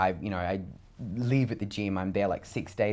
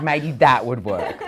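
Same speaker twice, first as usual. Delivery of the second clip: laughing quote; 3 semitones higher, 8 dB louder, slower than usual. Retold or imitated. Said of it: "I was like".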